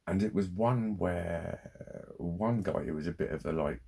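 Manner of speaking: ordinary talk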